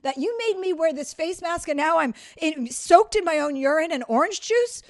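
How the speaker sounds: half-hearted angry retelling; raging rant. Retold or imitated. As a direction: replay the fury at the cousin without real volume. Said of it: "I'm raging".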